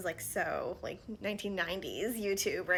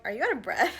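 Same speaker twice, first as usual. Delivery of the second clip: raised, louder imitated question; mock questioning; 2 semitones higher, 8 dB louder than usual. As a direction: voice other people's surprised question, louder. Acting out people's concerned question.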